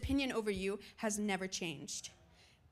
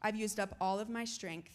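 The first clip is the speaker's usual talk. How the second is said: low, soft and defeated; acted discouragement; 4 semitones lower, 7 dB quieter than usual. Preacher voices Isaiah doubting his labor, discouraged. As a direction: let it sink, worn out, with pauses.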